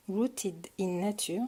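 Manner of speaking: slow English title in a French accent; English words, French accent. Real, not acted. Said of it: "excusez-moi pour mon, mon accent".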